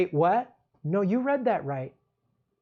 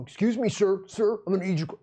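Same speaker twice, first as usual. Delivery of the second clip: lightly voiced robotic cop; flat scripted cop line, mock; dumb robot cop voice. Cop with a badge addressing a citizen, mock robot voice. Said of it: "dumb robot voice".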